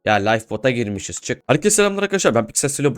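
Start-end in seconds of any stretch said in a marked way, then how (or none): 1.5-3.0 much higher, bright YouTuber greeting; peppy intro restart. Shown as a demonstration. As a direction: relaunch the intro with fresh energy. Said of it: "oğlum bu hangi server lan?".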